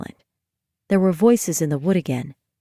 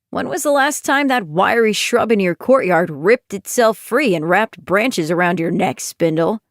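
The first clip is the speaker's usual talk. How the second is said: snide. Acted. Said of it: "pointed and snide".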